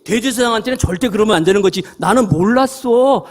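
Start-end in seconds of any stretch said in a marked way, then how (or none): 2.0-3.2 slow, sly playing dumb; feigned innocence. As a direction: drag it out like a cheeky excuse. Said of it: "이런 거예요, 지금 바울이".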